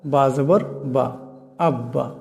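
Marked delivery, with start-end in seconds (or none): 1.6-2.1 "আব্বা" with the b held twice as long; doubled b. Shown as a demonstration. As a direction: press and hold the b in "আব্বা". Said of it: "দুইটিকে একসঙ্গে মিলিয়ে আব্বা পড়া হয়েছে".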